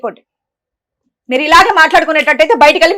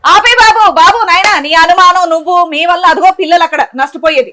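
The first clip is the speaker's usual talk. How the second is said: loud, high outburst to stop him; exasperated scolding; 4 semitones higher, 4 dB louder than usual. Real, not acted. Woman cuts off suspicious husband mid-quarrel, exasperated. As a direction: shut him up, fed up and loud.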